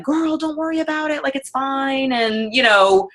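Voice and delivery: lightly voiced relaxed customer; easygoing customer. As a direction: brush it off, no big deal. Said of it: "They were like".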